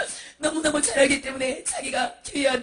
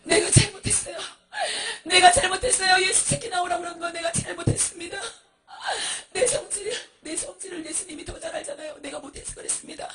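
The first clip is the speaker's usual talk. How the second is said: high, sobbing confession in waves; tearful repentance; 5 semitones higher than usual. Acted. Humbled monk confessing his wrong to Jesus, tearful begging. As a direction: plead brokenly, wailing the key admissions.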